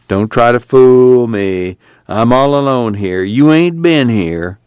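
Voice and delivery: put-on stubborn drunk waving him off; lightly voiced, slow drunk old man; drunk Uncle John.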